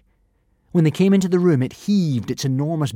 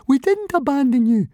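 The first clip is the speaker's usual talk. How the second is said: much higher squeaky protest; squeak; 14 semitones higher, 5 dB louder than usual. A narrator's reading. Fishlegs protests to Alvin, high squeak. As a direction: squeak it out in panic. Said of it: "squeaked Fishlegs".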